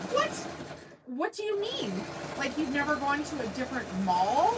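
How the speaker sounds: high, incredulous "what do you mean"; imitating her own shocked reaction; retold disbelief. Retelling the Waffle House chat, in mock disbelief. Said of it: "I was like".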